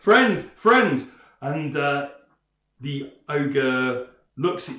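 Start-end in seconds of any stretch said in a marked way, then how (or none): 0.0-1.1 raised, louder retelling of a shout; imitated call. Game master repeating player's call to ogre, mock shout. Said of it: "you duck back and you say".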